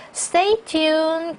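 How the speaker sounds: "Stay tuned" high and firm; emphasized Stay tuned. Shown as a demonstration. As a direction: lift and punch "Stay tuned". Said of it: "강조해 주시고요". ("Stay tuned"를 높게 강조해서)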